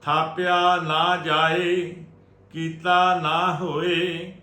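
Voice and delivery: slow, measured sacred chant on a level tone; Gurbani recitation. Shown as a demonstration. Teacher reciting Gurbani for the congregation to learn, measured chanting. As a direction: recite scripture phrase by phrase, drawing out endings.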